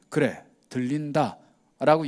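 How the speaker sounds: slow, steady yes; calm slow answer. Retold or imitated. Jesus answering the leaders, slow calm reply. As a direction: answer simply and calmly.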